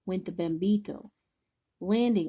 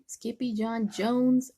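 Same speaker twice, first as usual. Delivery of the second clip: calling out; 3 semitones higher, slower than usual. Acted. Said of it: "everyone cried".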